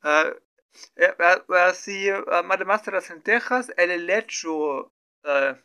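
ordinary delivery

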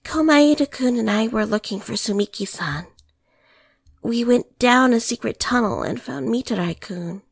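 faltering, pause-filled telling; hesitant, broken account with long pauses; halting speech. Acted. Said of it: "in a faltering tone, with lots of pauses".

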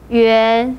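元 in Mandarin second tone, pitch rising. Shown as a demonstration. Teacher shows learners the tone, 元 said with a rising second tone. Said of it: "second tone".

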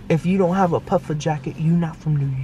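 bad attempt at a New York accent. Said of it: "I'm trying to do a New York accent".

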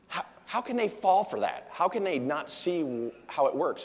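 high, disbelieving daughter voice, a bit brighter; mock her amazement that people fall for it; incredulous teen. Daughter asking her dad in disbelief how they fall for it. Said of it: "And she's like".

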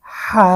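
হা with a constricted throaty h, vowel held; pressed throat. Shown as a demonstration. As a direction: squeeze the throat slightly for the h of হা. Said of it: "গলাটা একটু চাপ দিয়ে". (গলায় চাপ দিয়ে হা)

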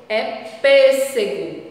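"pêssego" slow with closed stressed PÊ; closed ê demo. Shown as a demonstration. Teacher naming the fruit, slow closed PÊ. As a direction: show the closed Ê of "pêssego" slowly. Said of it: "Tem o som fechado".

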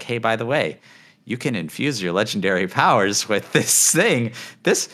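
a hint of a presenter's announcement voice; Diablo announcing guy. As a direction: imitate a game developer announcing an update. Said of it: "pretty spot-on voice for the Diablo, like, announcing guy voice".

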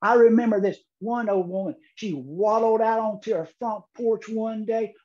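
ordinary delivery

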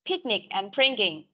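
slow "Picnic" with a strong aspirated p, "bringing" with a light b; p versus b. Shown as a demonstration. Teacher contrasting p and b sounds for the class. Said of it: "Đọc là picnic thì nó sẽ nặng hơn".

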